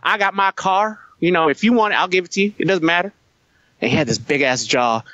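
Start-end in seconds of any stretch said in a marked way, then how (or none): 0.0-3.1 higher-pitched impression of a big-jawed windbag; imitating a speechmaker. Posted leader giving long speeches about his car, higher-pitched imitation. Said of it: "he would talk about".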